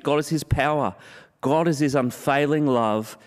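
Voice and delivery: rising, ringing list with a laugh of joy; building proclamation. Acted. Preacher listing what David calls God, rising with joy.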